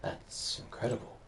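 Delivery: lightly voiced Scottish mentor with a bad accent; terrible Scottish accent. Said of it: "There's my terrible Scottish accent".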